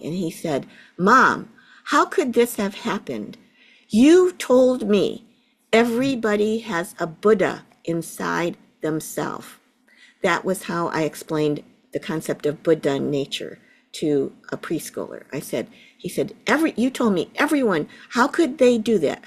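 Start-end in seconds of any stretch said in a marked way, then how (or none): 1.0-9.5 imitating a four-year-old's angry cry, louder and higher on Mom and You told me; mock indignant child scolding his mom; retold angry yell. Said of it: "he yelled at me". 16.5-19.2 fast, higher, louder imitation of an upset child; mother acting out her son's outraged demand; retold angry protest. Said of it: "He was angry at me".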